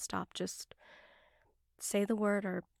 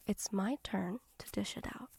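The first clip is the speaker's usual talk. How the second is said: menacing whisper; 5 dB quieter than usual. Acted.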